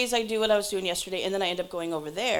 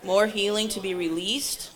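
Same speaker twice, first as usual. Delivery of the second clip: earnest spoken healing prayer, strong opening; congregational prayer; 2 semitones higher than usual. Real, not acted. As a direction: pray aloud for the room, easing toward amen. Continues leading healing prayer.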